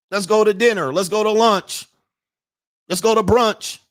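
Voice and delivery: high, insistent imitation of nagging requests; exasperated parody of someone asking nonstop; mock demanding. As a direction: pitch up each mimicked demand. Mimics nonstop demands from women.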